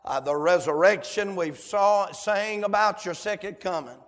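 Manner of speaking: Southern pulpit prayer, fervent then subsiding; public prayer. Real, not acted. Leads the congregation in prayer.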